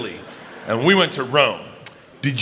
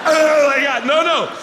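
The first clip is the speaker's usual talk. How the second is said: disgusted woman; 9 semitones higher than usual. Acted. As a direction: squeal in horror at the smell. Acted disgusted reaction scene.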